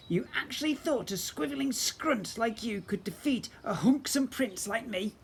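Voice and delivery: high, hissy whispered boast, slowing at the end; sneering goblin prince, whispered. Acted. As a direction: gloat in a conceited whisper. Voiced villain prince boasts.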